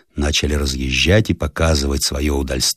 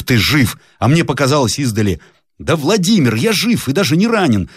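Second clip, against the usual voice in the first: glad exclamation; 7 semitones higher than usual. Acted. Joyful reunion of friends.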